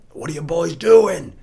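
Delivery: drawn-out, high, loud cop challenge; hammed-up policeman's questioning; mock cop. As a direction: imitate a suspicious officer, slowly and loudly. Cop challenging parked boys, retold.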